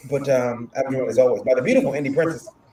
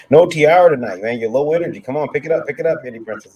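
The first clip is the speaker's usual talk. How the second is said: hype; 4 semitones higher, 7 dB louder than usual. Real, not acted. Host pumping up cohost.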